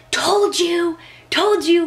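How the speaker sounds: high, loud told-you-so; triumphant. Retold or imitated. Mother to ultrasound tech, gloating excitedly. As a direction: crow it in triumph, singsong.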